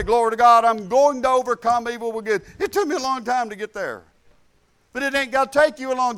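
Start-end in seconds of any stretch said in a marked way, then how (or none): 0.0-2.4 declared aloud. Shown as a demonstration. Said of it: "All you gotta do is say".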